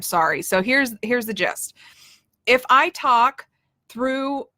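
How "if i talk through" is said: talking through the nose to show a nasal tone; nasal voice demo. Shown as a demonstration. Coach demonstrates to viewers a nasal voice. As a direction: coach showing how a nasal voice sounds. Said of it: "it sounds really nasally".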